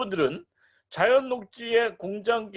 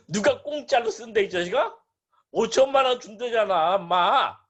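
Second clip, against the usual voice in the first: mild mock telling-off, raised voice; playfully indignant scolding; mock cursing; 5 semitones higher, 4 dB louder than usual. Buyer scolding a landowner over the offered money, mildly hammed-up anger. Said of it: "너무 심하게 얘기했네".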